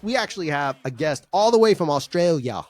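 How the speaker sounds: a quick, hammy stab at an Australian accent; Australian twang on the word Australia; mock Australian accent. Shown as a demonstration. Host bringing in the Australian guest, mock Australian accent. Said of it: "That was my accent".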